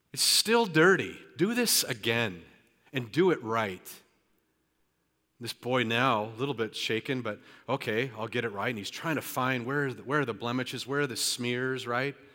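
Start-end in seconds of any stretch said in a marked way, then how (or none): 0.2-3.9 put-on annoyed, loud, irritated, swooping, demanding tone. Retelling a story, the speaker voices a man ordering a boy to redo it: imitating an irritated man. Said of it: "the man is irritated, says".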